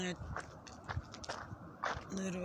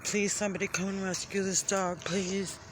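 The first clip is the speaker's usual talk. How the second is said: begging; faster than usual. Real, not acted. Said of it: "I'm begging you".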